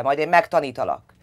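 loud threatening shout; father threatening the child, furious; angry threat. A narrator's reading. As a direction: threaten her, loud and hard. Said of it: "üvöltötte".

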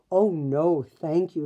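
put-on eager no thank you, girlish; lightly voiced girl. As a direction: Lisa answers the sales lady, lightly girlish. Lisa politely declines.

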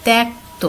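ত্যক্ত said "tekto", with an e vowel; ত্যক্ত pronounced "tekto"; teacher pronunciation. Shown as a demonstration. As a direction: model ত্যক্ত as "tek-to". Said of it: "উচ্চারণ হচ্ছে".

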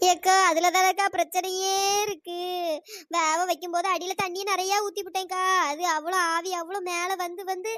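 whining tale of woe ending in sobs; tearful lament. Acted. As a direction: sob out the story of a ruined dish. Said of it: "அதான் இப்ப அழுது". (அழுது புலம்பியபடி சொல்லுதல்)

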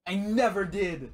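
high, loud, drawn-out protest; real squabbling protest; indignant denial. Real, not acted. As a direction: stretch out a loud, exasperated denial. Heated denial in argument.

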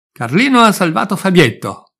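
put-on high, loud child's cry of joy; excited shout. Little sister shouting that her brother saved the boy, excited cry. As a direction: shout the news like a little girl bursting with pride. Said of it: "gridò la Mary".

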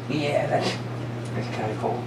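low, very soft toy voice. Acted. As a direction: play the talking toy. Furby toy talking.

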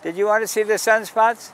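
loud, high street invitation; calling out to a passerby. Real, not acted. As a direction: hail someone from across the sidewalk.

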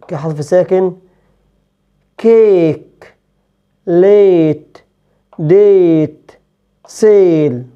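تيك said with an "ei" glide; English long a. Shown as a demonstration. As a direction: glide "ei" clearly in تيك، ميك، كيك، ليت، ديت، سيل. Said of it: "بنطقها اي". (نطق اي إنجليزية)

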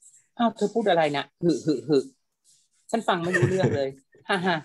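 mock laughter worked into the speech; talking while laughing. Shown as a demonstration. Translator demonstrates a dubbing character's line, talking while laughing. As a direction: act out chuckling between the words. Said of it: "แมรี่พูดไปหัวเราะไป".

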